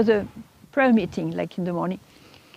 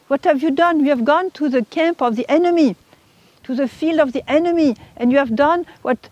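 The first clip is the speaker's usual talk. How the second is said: raised-pitch, imitated accusation; blunt reproach; 4 semitones higher than usual. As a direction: accuse head-on, skipping all courtesies. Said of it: "is not a matter of politeness".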